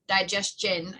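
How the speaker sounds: "digestion" with the -chun ending restored; corrected pronunciation. Shown as a demonstration. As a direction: land on "digestion" as di-JES-chun. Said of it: "I can't speak".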